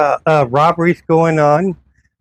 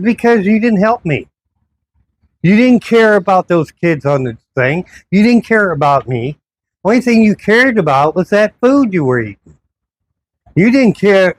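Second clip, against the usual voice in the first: higher, pressed, accusing tone; retold angry accusation; 6 semitones higher than usual. Accusing the officer who ignored him, heated and higher. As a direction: jab each line at him like a charge.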